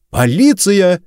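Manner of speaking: high-pitched police call; echoing shout. A narrator's reading. Policewoman echoing her partner's warning, high shout. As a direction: call it out as backup to your partner. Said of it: "эхом отозвалась Савидж".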